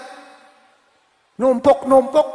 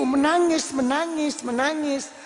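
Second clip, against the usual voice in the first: wailing plea; 4 semitones higher, 4 dB louder than usual. Acted. Preacher acting a weeping supplicant.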